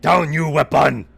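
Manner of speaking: booming brutish ogre command. Acted. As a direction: bark it like a dim brute. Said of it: "and he says".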